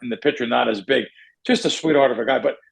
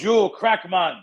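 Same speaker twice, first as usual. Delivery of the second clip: imitated big Russian guy, pitched up; European accent; 4 semitones higher, slower than usual. Huge stranger stopping the speaker in a casino, imitated European accent. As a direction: put on a thick Eastern European accent. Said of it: "not making fun of any accent".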